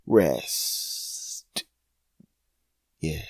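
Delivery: whispered. Acted. Whispered word.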